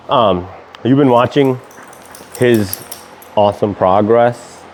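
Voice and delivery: lisping through missing teeth. Real, not acted. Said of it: "I'm so conscious about the lisp".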